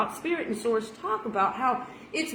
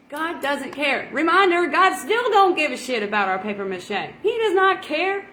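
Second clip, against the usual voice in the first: emphatic preaching; 5 semitones higher, 4 dB louder than usual. Acted.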